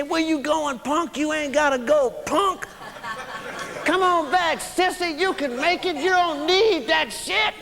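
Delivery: a light imitation of corner buddies jeering; taunting buddies. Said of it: "they kept calling me punk".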